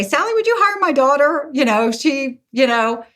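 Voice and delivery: pleading father. Retold or imitated. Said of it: "they write to me and say".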